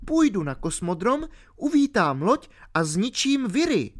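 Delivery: put-on a ten-year-old girl explaining herself. A narrator's reading. Alenka explaining to R why she fell asleep, girlish.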